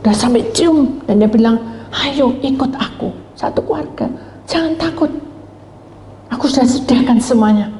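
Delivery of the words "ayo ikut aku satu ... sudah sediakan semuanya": pleading in tears. Acted. Noah begging his friend to come, tearful. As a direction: beg a friend gently, close to crying. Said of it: "Sampai nangis dia".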